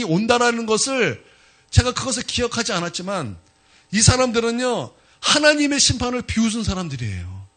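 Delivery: high, loud, emphatic sermon delivery; forceful preaching. Real, not acted. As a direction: preach it out with rising conviction. Preacher drives home the point. (목소리를 높여 힘주어 설교하듯)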